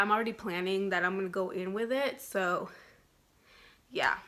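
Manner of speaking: breathless; short of breath, puffing. Real, not acted. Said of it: "I am out of breath".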